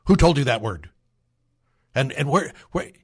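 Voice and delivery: loud, alarmed parent reaction; mock-panicked mom; shocked parent. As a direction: blurt it out, caught off guard. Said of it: "your first reaction is".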